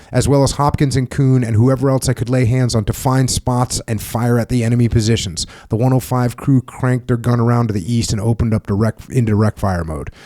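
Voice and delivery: steady memoir narration, read aloud; book reading. Acted. Host reading his book to the veteran, steady narration. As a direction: read the war memoir passage evenly.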